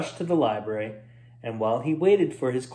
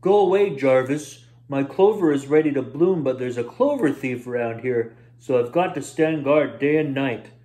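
louder barked warning at the start; gruff shout; 3 dB louder than usual. Acted. Roy shouting at Jarvis to go away, gruff. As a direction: shoo him off. Roy guarding patch angrily.

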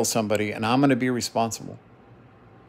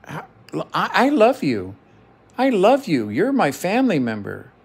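earnest pleading; 6 semitones higher than usual. Retold or imitated. Uncle retelling his plea to a family member, earnest pleading. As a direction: plead with swooping, emphatic pitch. Pleading with nephew in retold argument.

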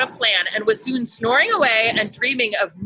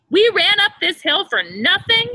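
wheezing elder; 9 semitones higher, 4 dB louder than usual. A narrator's reading. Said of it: "the eldest wheezed".

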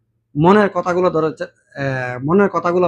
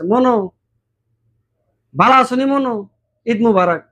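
Barisal dialect greeting, a bit higher; 5 semitones higher than usual. Retold or imitated. A Barisal man wishing Eid Mubarak, in Barisal dialect. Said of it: "কোনো বরিশালের লোক যদি আসে".

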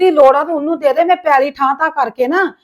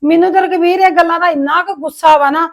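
indignant complaint. Acted. Widow angrily complains to brother-in-law.

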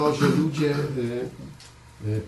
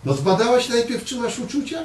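teasing; 9 semitones higher than usual. Retold or imitated. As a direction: tease his wife with high, playful questions. Mock teasing questions to Marta. (żartobliwe, wysokie pytania do żony)

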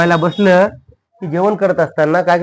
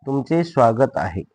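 drawn-out teacher's repeat; slow dictation. Shown as a demonstration. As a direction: say it slowly, word by word. (सावकाश लिहून घेण्यासाठी सांगणे)

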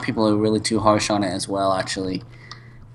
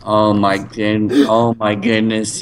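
slow, drawn-out amazed exclaim; excited; 4 dB louder, slower than usual. Real, not acted. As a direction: gasp it out, amazed at the loot. Excited reaction to gear.

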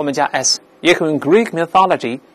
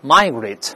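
"migrate" stressed on the first syllable, MI-; American front stress. Shown as a demonstration. Teacher reads the verb aloud for learners, "migrate" stressed on MI-. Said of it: "按照美式发音排遍".

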